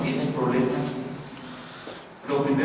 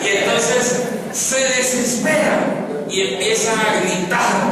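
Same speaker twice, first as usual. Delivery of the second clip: desesperación dramatizada; 7 semitones higher, 5 dB louder, slower than usual. Acted. Dramatiza la desesperación del relato.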